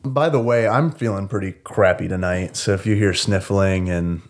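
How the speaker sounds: hoarse from a sore throat; talking through a sore throat, jokingly sultry. Real, not acted. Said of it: "that's why I'm using my sultry, sexy voice".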